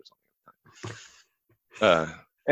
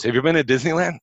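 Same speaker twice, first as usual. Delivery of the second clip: changed tone; 7 semitones higher, 4 dB louder than usual. Retold or imitated. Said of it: "I could hear the change in the tone of his voice".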